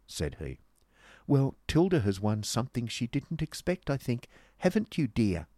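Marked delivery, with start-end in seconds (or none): 1.3-5.5 higher, needling sweetness; a mildly spiteful dig, raised in pitch; malicious. Acted. Miss Squeers needles her friend at cards, maliciously. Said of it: "said Miss Squeers maliciously".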